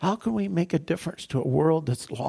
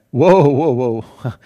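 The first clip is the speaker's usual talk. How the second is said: startled whoa; 4 semitones lower, 10 dB louder, much slower than usual. Retold or imitated. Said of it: "and I went".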